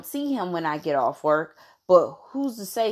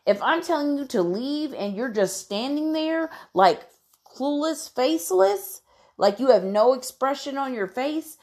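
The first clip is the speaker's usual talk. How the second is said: high, heated mock rant at a stalker; exasperated inner rant; 5 semitones higher than usual. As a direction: vent the thought, rising in pitch. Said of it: "the thought that came through my mind is".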